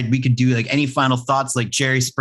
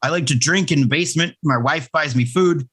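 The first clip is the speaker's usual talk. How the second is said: mocking Jeremy; 3 semitones higher than usual. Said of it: "and he'd be like".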